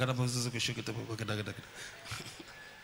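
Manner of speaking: rapid babbled prayer syllables; playful stream of nonsense prayer; mock speaking in tongues. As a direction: imitate a child babbling in tongues. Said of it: "They started speaking in tongues".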